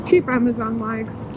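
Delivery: muffled inside a helmet; talking through a helmet, muffled. Real, not acted. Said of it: "my voice is a little bit muffled".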